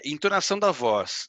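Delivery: normal talking voice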